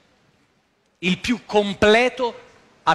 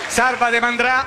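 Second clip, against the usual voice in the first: Roman dialect catchphrase; 3 semitones higher than usual. Retold or imitated. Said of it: "Sei entrato con febbre da cavallo".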